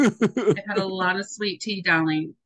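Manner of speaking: slow, playful Southern drawl; mock-Southern sweetness; Southern accent. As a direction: stretch it out in a put-on Southern accent. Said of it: "I'm going to adopt a Southern accent".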